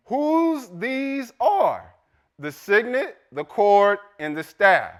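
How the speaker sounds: measured reading with emphatic pauses; scripture reading. Acted. Preacher reading Tamar's story to congregation, emphatic scripture reading. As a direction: read it out to the congregation, phrase by phrase.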